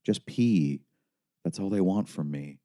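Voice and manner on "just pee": urging mother. A narrator's reading. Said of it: "she said".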